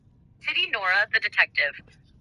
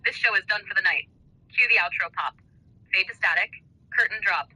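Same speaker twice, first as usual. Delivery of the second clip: wrestling promo. Acted. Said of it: "wrestling style".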